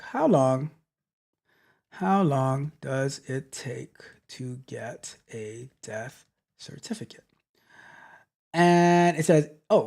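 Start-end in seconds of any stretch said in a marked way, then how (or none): 1.9-7.2 slow, softer whisper to herself; murmured search while typing; whispered aside. Real, not acted. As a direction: mutter the search under your breath. Muttering while searching online.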